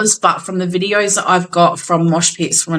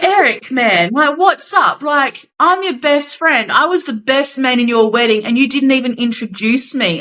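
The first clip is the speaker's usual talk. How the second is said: higher, lightly hammed-up hurt best friend; mock complaint; 5 semitones higher than usual. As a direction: whine playfully about being left out. The speaker complains on stage.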